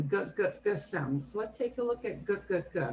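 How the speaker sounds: "G" said as a hard guh; hard G sound. Shown as a demonstration. Teacher drilling the class on G as a hard guh. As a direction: repeat "G" as a short hard guh. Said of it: "start with the hard sound".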